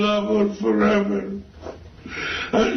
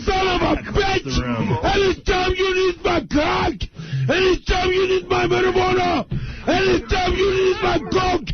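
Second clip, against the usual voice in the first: furious yelling; 6 semitones higher than usual. Real, not acted. Sheik screams insults at Randy Savage on the phone, furious. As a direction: rage at him down the phone.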